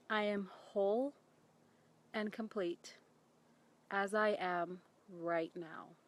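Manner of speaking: each word slow and soft, with pauses; slow soft affirmation. Shown as a demonstration. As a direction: let each word sink in gently. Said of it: "hear the words I speak".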